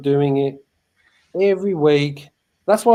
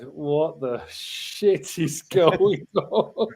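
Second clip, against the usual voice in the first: amused disbelief; much slower than usual. Retold or imitated. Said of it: "I was like".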